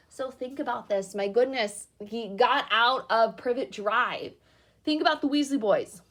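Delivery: teacher wrapping up the chapter, excited. Real, not acted. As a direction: rouse the class.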